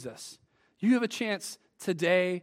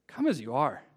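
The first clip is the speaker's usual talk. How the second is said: gentle invitation; 7 semitones lower than usual. Retold or imitated. Jesus inviting the weary, low and gentle.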